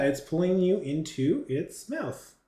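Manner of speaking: slow, singsong, gleefully drawn-out narration; cheery game master relishing the danger; cheerful. Real, not acted. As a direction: deliver the bad news cheerfully, taking your time. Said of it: "say it so cheerfully".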